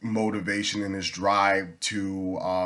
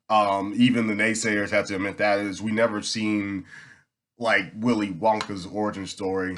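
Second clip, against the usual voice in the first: talking around a mint; mouth full. Real, not acted. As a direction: mint in the mouth while speaking. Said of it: "I got a mint in my mouth".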